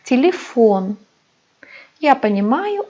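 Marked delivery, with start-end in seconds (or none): 0.0-1.0 Telefon said ti-li-FON, the Russian way; Russian Telefon, stress on the last syllable; unstressed e as i. Shown as a demonstration. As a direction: turn both unstressed vowels of Telefon into i. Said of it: "vurgusuz y'ler i gibi okunuyor".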